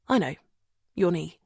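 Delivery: gentle, understated softening; softened voice. Acted. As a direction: ease off and soften. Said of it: "softening his voice".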